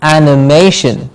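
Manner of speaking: "animation" as a-ni-MAY-shun, weight on "ma"; stress before -tion. Shown as a demonstration. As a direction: model "animation", stressing the third syllable. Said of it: "we stress the syllable before shin".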